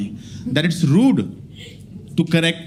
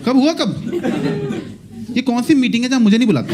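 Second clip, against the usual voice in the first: higher, incredulous mock outrage with laughs; 5 semitones higher than usual. Dumping a drunk friend's fancy word, mock outraged. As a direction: play it as betrayed, amazed.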